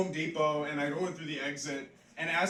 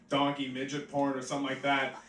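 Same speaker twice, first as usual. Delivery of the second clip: ordinary talk, nothing marked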